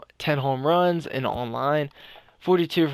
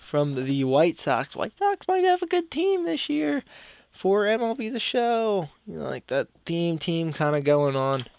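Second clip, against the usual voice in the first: breathless, gasping between words; talking while out of breath; 3 semitones higher than usual. Real, not acted. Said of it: "I'm out of breath a lot today".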